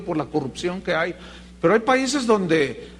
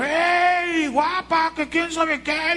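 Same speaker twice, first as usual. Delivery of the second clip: catcalling; 9 semitones higher, much slower than usual. Retold or imitated. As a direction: call out to the girls from the car. Men catcalling girls in the street.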